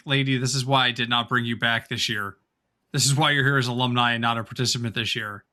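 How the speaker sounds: Kai fed up. Pretend. Imagining the host scolding an uninvited guest, fed up. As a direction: lightly voice a host's low, weary rebuke. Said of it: "imagine the look on Kai's face".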